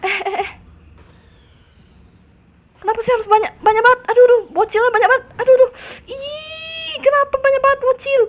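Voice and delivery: high-pitched panicked wailing; frantic high gamer whine. Real, not acted. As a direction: squeal in dismay at being swarmed. Swarmed by enemies in game.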